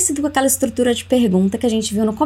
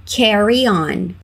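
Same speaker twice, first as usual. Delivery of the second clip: slow model phrase; slower than usual. Shown as a demonstration.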